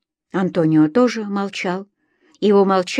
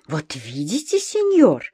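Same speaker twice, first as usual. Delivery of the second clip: gleeful cry. A narrator's reading. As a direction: cry out triumphantly, pitch soaring. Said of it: "обрадованно закричал муж". (обрадованно вскричав)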